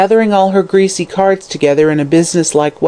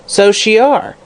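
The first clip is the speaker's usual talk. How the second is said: growled; 6 semitones higher, slower than usual. Acted. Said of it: "growled Mother Guttersnipe angrily".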